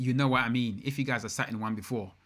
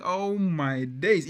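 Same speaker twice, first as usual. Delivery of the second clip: slow, drawn-out awe, higher and louder; retold wow, stretched right out; amazed; 5 semitones higher, 5 dB louder, much slower than usual. Car fan recalling the Voiture Noire, amazed.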